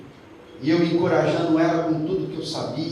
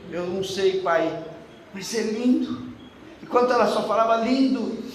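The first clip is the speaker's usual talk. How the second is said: awed tearful quote; 6 semitones higher, 4 dB louder than usual. Retold or imitated. Daughter in awe, crying.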